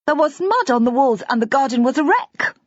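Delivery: put-on a small girl reliving the flood; excited little girl. A narrator's reading. Little girl telling the grown-ups about Daddy's flood.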